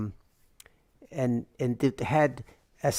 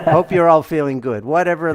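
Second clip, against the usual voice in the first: laughing; 3 semitones higher, 10 dB louder than usual. Real, not acted. Laughing after shared joke.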